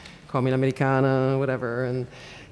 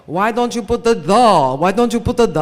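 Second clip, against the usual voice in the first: Italians asking; 7 semitones higher, 8 dB louder than usual. Retold or imitated. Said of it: "a lot of Italians say".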